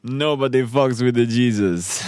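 slow, menacing bowler's boast; drawn-out tough-guy threat; John Turturro as Jesus. Retold or imitated. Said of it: "give us a John Turturro one".

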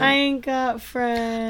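slow, high Southern twang mocking the line; mock southern accent. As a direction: drag out a Southern twang, slowly. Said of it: "giving him a southern accent".

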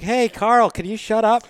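joking plea. Retold or imitated. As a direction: call out to the colleague in a high, teasing voice. Joking meeting plea to colleague.

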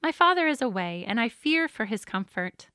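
measured storybook reading with lively pitch; story narration. A narrator's reading. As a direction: read a tale aloud to children, pausing between lines. Reads a children's story aloud.

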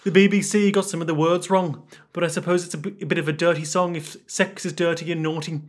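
lightly put-on Liverpool accent; a singer. Singer explaining his banned lyrics, imitated Scouse accent. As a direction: read it out as mock Scouse. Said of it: "what's Paul McCartney's voice?".

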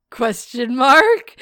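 slow, loud, exaggerated question on "Question mark"; hardop vraagteken. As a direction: QUESTION MARK drawn out, rising steeply on MARK. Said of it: "say it like it's a question".

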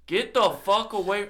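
sharp, high yell to back off. Retold or imitated. Yelling at the drunk friend in his face. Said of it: "I'm, like, yelling at this point".

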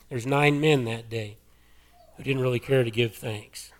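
hoarse, losing voice. Real, not acted. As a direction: rasp through a failing voice. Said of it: "I'm losing my voice here".

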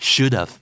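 "should've" with a short final "v" sound; contracted form. Shown as a demonstration. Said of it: "หลายครั้งอาจจะได้ยินว่า".

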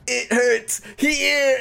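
high, slow whiny cry; whiny faker. Faking patient to the healer, slow high whine. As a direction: drag it out like a kid faking hurt. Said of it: "will be like".

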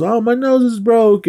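high-pitched imitation of a punched man; mock complaint. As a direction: whine like a guy with a broken nose, hammed up.

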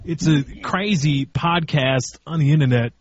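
lightly voiced halting Walken cadence; odd pauses, oddly stressed words; Christopher Walken. Friend asked for his impression, in a light Walken cadence. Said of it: "Let's do the Christopher Walken".

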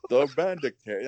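Nicolas Cage doing gruff British pirate; gruff British pirate accent. Retold or imitated. Imitating Nicolas Cage's bandit voice for a friend in a gruff British pirate accent. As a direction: growl it like a British pirate king. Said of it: "He talks like this".

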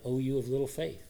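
soft, dropped-down rebuke. Acted. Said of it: "Jesus has to say it again".

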